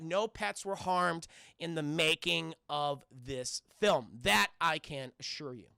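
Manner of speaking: measured, mock-solemn reassurance; mock disclaimer. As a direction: read it out as an official film notice. Mock film disclaimer to chat.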